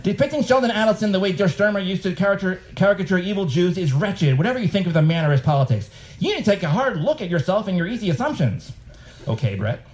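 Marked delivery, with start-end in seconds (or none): 0.0-8.7 higher, lecturing tone; a hint of a stern scolder; mock pompous critic. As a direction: author reading a critic's email in a mock lecturing voice. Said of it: "I don't know if he talks like this".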